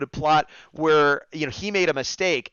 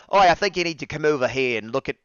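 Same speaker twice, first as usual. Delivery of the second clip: put-on New Zealand accent. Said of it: "allowed to use his New Zealand accent".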